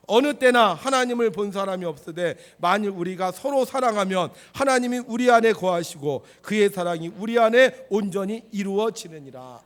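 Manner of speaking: loud, emphatic, measured scripture reading; scripture recitation. Acted. Preacher leading congregation in reading, loud recitation. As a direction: lead the congregation firmly through the verse.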